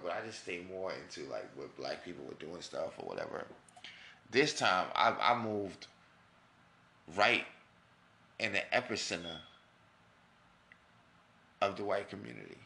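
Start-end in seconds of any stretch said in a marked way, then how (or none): 4.3-12.6 emphatic build. Real, not acted. Dramatic emphasis on moving in.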